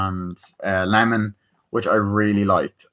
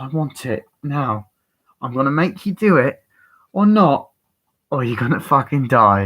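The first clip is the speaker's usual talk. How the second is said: mock threat, pitched up and building louder mid-way; threatening; 4 semitones higher, 4 dB louder than usual. Retelling villain demanding the briefcase, threatening. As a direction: issue an ultimatum, imitating a film villain. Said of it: "threatening behavior".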